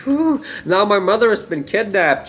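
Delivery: deadpan it like nothing matters; a hint of a shrugging hero; mock Superman. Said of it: "He's just like".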